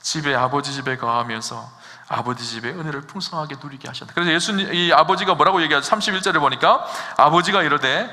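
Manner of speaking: usual speaking voice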